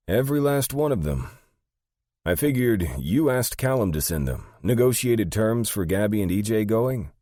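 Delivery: high, loud character voice; high-voiced, emphatic underling; Sandy, bewildered assistant. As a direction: pitch it way up and explain.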